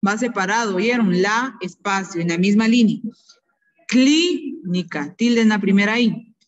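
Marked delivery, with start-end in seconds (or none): 3.9-5.1 each word drawn out slowly for the class; teacher dictating slowly; slow dictation. Shown as a demonstration. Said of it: "voy a ir dictando".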